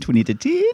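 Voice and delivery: pitch climbing high on the word ten. Pointing out their own inflection while giving the time, high rising inflection on ten. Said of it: "Notice the high raised inflection".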